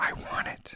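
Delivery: softly and quietly spoken, hushed. Reading a story, a woman answers a startled man, speaking quietly. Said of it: "she said quietly".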